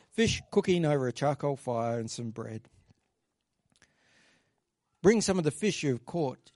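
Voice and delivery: measured, storytelling Bible reading; scripture reading. Acted. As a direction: read the passage to the congregation. Continues reading the passage.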